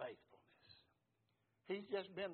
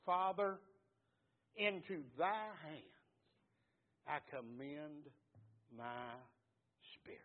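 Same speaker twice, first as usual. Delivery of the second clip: strong, clear voice. Acted. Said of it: "in a strong, clear voice".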